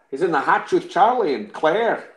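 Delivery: struggling mock-Scottish character voice; Desmond impression. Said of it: "pivot into a Desmond impression".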